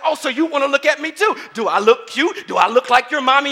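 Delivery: high, loud mock drill-sergeant taunt; drill instructor yelling. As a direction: tear into the recruit, hammed up. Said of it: "I'm going off".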